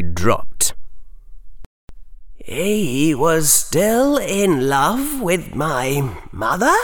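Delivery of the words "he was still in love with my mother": put-on higher, puzzled boy's voice; a confused, apologetic boy; young Harry voice. Harry's slow realisation.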